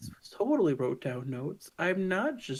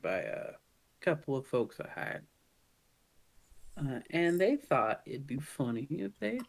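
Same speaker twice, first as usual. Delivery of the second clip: lightly voiced soft Southern gentleman boss; soft southern accent; 3 semitones higher than usual. Southern boss asking the crew a favor, gentle Southern accent. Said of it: "talks with a southern, soft southern gentle accent".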